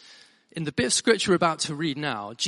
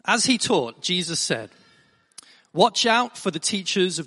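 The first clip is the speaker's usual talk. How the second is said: measured, deliberate Bible reading; formal reading aloud with weighted emphasis; scripture reading. Acted. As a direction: read it out clearly to a congregation, phrase by phrase.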